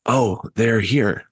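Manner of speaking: slow, lightly eerie voice; a hint of spooky sing-out, slow; disembodied voice. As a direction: draw it out like an unseen watcher. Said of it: "you hear a voice say".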